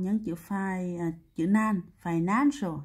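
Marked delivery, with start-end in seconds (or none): 2.0-2.8 "financial" with the middle syllable "nan" stressed. Shown as a demonstration. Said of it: "nhấn chữ nan này". (nhấn âm "nan" trong "financial")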